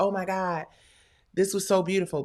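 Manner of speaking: put-on crying, tearful voice. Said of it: "The cameramen were actually in tears crying".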